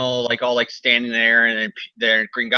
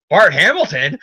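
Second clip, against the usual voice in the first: higher, louder mock shock; incredulous, raised-pitch question; retold surprise; 3 semitones higher, 5 dB louder than usual. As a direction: act out a startled double take on a name. Retold shocked unmasking of villain.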